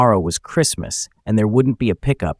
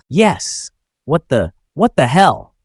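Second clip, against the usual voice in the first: higher, halting burst of alarm; startled; 5 semitones higher, 3 dB louder, slower than usual. A narrator's reading. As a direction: break off and restart, taken aback. Startled man faces a pistol.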